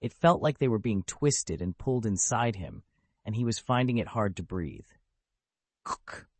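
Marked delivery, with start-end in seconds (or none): 5.8-6.3 cough. A narrator's reading. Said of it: "Reyes coughed".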